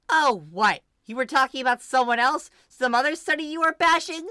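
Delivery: put-on sarcastic older sister; biting sarcasm. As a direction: sneer at the excuse. Mari sarcastic.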